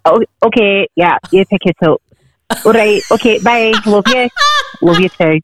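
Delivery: offhand Scottish phone sign-off; nonchalant Scottish accent. Shown as a demonstration. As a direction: chat casually in a put-on Scottish accent. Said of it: "be like this".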